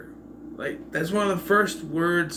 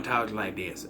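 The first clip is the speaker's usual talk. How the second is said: put-on Carolina twang; mocking Southern accent; 5 semitones lower, 7 dB quieter, slower than usual. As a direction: imitate a hammed-up Southern accent. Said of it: "give him some kind of accent".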